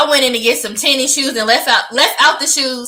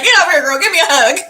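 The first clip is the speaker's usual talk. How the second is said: motherly invitation; 4 semitones higher, 4 dB louder, much faster than usual. Retold or imitated. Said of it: "the mom in me was like".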